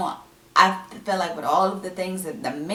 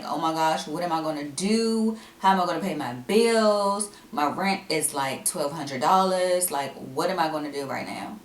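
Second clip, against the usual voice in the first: mock freak-out. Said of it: "I probably should be freaking out".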